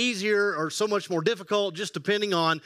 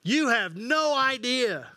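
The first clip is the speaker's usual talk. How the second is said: put-on old man voice; 5 semitones higher, slower than usual. Catchphrase in old voice.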